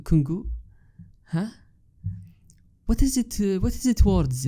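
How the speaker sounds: lightly voiced sister groping for a word, pitch up; a hint of the sister fumbling for the word; imitating sister searching. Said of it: "she went on and saying".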